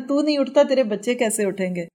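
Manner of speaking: lightly voiced mother's taunt. Mother needles her grown son every morning, mildly taunting. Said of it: "اس کو روز صبح اٹھ کے تانے دیتی ہوگی".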